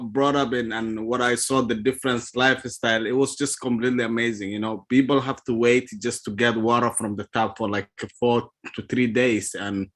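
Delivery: normal talking voice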